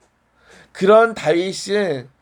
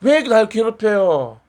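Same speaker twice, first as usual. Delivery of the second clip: slow, drawn-out whine of protest, lightly acted; mildly put-on irritation; mock annoyed complaint; 2 semitones higher, slower than usual. Believer grumbling to God about hardship, mock annoyed. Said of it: "짜증내는 게 아니라".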